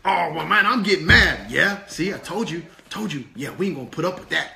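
hammed-up puppet tantrum; mad puppet. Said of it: "we're about to get mad right now".

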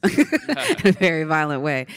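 laughs through the words; laughing. Real, not acted. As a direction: chuckle as you say it. Host laughing while describing violence.

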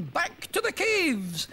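slow, high, drawn-out shouted command; shouted order. Acted. Crowd leader ordering everyone home, slow loud shout. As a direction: call the retreat loudly. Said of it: "shouted someone".

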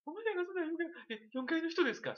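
high, mildly put-on polite ask; hammed-up politeness to a neighbor; mock polite question. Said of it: "そんなん言われへんよ". (高めの声でおどけた丁寧な問いかけ)

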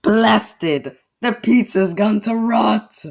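loud, high, dismayed outburst; outraged cry. Acted. Outraged character discovery.

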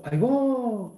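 a demonstrated gasp of realisation in words; surprised exclamation. Shown as a demonstration. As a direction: stretch it in mock astonishment. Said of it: "por ejemplo, si yo digo".

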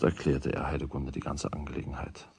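hushed narration; soft whispered aside. A narrator's reading. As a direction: whisper it like a secret.

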